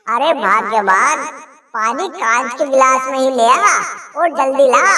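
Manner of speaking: husband demanding water from wife, impatient. Acted. Husband exasperated.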